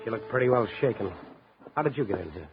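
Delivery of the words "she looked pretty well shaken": hard-boiled private-eye narration over music; noir narration. A narrator's reading. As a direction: tell it like a tired newspaperman recalling the night.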